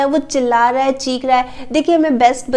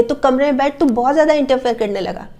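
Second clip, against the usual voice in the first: scolding parent. Retold or imitated. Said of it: "उसको उल्टा ही डांट दिया".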